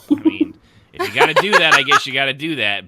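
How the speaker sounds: exasperated loud. Real, not acted. Exasperated rant.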